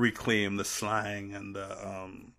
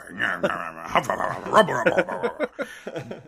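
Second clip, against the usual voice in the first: mock British blustering noise; 2 semitones higher, 4 dB louder than usual. Shown as a demonstration. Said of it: "the good old British way".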